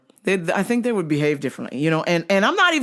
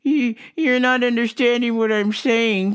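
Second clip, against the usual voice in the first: mock customer voice pitched higher; 6 semitones higher than usual. Store worker mimicking a fussy customer, higher voice.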